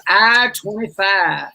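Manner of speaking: slow, drawn-out bingo call. Acted. Bingo host calling I twenty-five slowly. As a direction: drawl the ball number. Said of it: "bingo calling".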